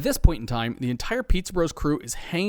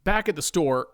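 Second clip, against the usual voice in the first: usual speaking voice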